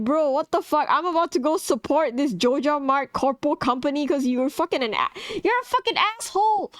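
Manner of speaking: mock-outraged telling-off, rising high at the end; retelling scolding the shopkeeper, mock outrage; appalled rant. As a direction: tell him off, half joking. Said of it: "I was so appalled by this fucking behavior".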